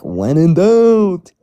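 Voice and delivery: put-on slow, drawn-out New York accent. Friend mimics Link's New York accent catchphrase. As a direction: stretch it like a stereotyped New Yorker. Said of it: "you do an accent when you do them".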